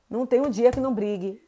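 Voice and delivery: ordinary talk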